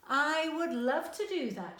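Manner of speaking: light up with longing; a little girl thrilled by the idea; excited child. A narrator's reading. Child excited by beach story.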